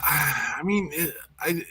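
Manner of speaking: tripping over words; halting, stuttering start. Real, not acted. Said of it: "I'm stuttering".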